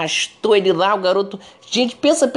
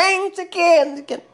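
mock yelling mother; 11 semitones higher, faster than usual. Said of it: "Eles descontam na criança".

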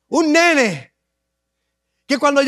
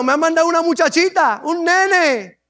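scornful taunt pitched higher, with a laugh; Goliath laughs at the boy sent against him, pitched up; mocking Goliath; 4 semitones higher than usual. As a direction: sneer at the little boy. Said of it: "Goliat se rió de él. Le dijo".

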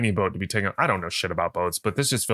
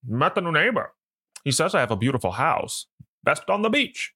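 lightly voiced old-time movie detective; 1920s gumshoe; 4 semitones higher than usual. Podcast host reading the husband's lines to his wife, as a 1920s gumshoe. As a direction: read it with a hint of 1920s gumshoe. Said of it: "like nineteen twenties gumshoe as well".

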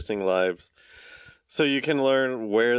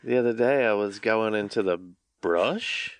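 Australian uptalk; 3 semitones lower than usual. Retold or imitated. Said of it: "they say everything as a question".

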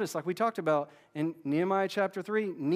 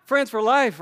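slow, much louder and higher, triumphant; joyful cry; 7 semitones higher, 12 dB louder, slower than usual. Pretend. After resolving conflict together, a loud slow joyful cry. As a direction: belt out the relief of new friendship. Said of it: "You're like".

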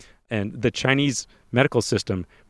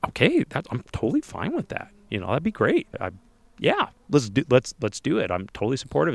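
overly eager agreement; 3 semitones higher than usual. Retold or imitated. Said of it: "And I'm like".

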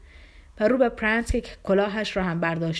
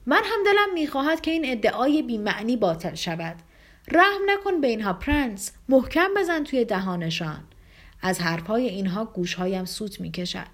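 loud and passionate. Acted. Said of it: "به صدای بلند و شور بسیار گفت".

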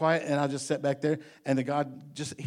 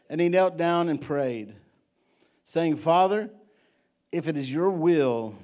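scripture reading; 2 semitones lower than usual. Acted. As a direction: read the verse deliberately, pausing between phrases. Reads scripture aloud.

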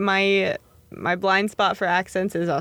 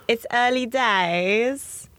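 put-on British accent; 3 semitones higher, much slower than usual. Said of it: "what else do they say".

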